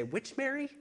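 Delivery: mock bewilderment of a Bible reader; confused reader. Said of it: "it's easy to say".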